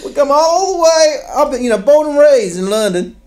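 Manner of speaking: comic David Beckham phone call voice; David Beckham impression. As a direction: do a breathy-free high London footballer voice. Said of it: "It's a fantastic accent".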